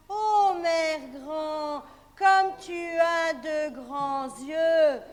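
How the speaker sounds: slow, drawn-out wonder; girl amazed. Acted. Girl marvelling at grandmother's eyes. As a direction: stretch it out in awe.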